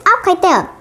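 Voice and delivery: high shout at the kite. Acted. Toad shouts at the kite while jumping, high shout. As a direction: call it up into the sky. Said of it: "He shouted".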